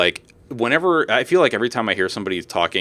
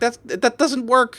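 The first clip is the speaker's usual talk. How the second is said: high, slow, incredulous; mock exasperated retort; 14 semitones higher, slower than usual. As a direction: spell it out to someone dense. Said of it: "it's like".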